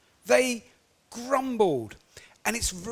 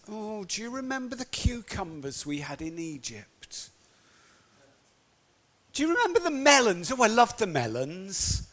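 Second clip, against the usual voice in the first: whiny moaning. Acted. Israelites moaning about Egypt food.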